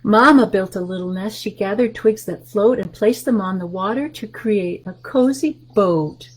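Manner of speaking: lively picture-book read-aloud; reading to children. Acted. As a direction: read the rhyme to the little ones.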